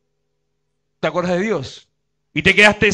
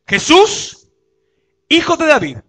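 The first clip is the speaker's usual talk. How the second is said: a raised, higher call that stops short of a full shout; held-back cry; 7 semitones higher, 3 dB louder than usual. Retold or imitated. Preacher voices Bartimeo crying out to Jesus, in a restrained cry. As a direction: cry out "Jesús" high while sparing a tired voice. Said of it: "la parte que me gusta gritar".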